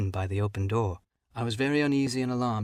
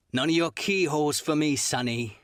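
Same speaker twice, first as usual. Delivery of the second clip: put-on pleading old shipmate; 4 semitones higher than usual. Black Dog orders Jim.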